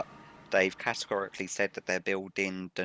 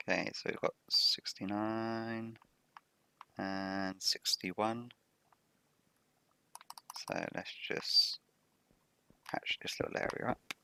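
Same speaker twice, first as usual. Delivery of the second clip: whispering; 4 dB quieter, slower than usual. Real, not acted. Counting coordinates under breath.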